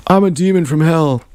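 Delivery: mock-boastful demon announcement; super confident guy. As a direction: imitate a cocky guy's proud declaration. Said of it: "this guy who was super confident".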